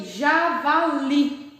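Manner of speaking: "javali" very slowly split as ja-va-LI; teacher demonstrating "javali" syllable by syllable; stress on LI. Shown as a demonstration. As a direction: sound out each syllable of "javali", holding the final LI. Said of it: "última sílaba que tem tom mais forte".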